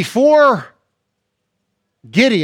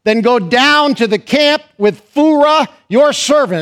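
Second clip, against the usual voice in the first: voice of God; 5 semitones higher, 3 dB louder, slower than usual. Acted. Preacher voicing God's command.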